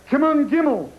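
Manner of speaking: put-on high old Jewish gambler calling the dreidel; high, pleading old Jewish man at a game; old Jewish guy. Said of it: "old Jewish guys bent down in the alley".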